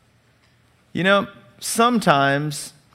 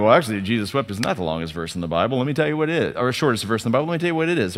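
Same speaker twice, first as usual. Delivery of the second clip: know-it-all; 4 semitones lower, 4 dB quieter, much faster than usual. Pretend. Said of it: "You go".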